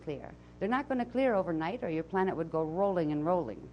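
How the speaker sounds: put-on channeled voice with a Transylvanian accent; Azara's Transylvanian accent. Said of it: "I'll come back from my, uh, Transylvanian accent".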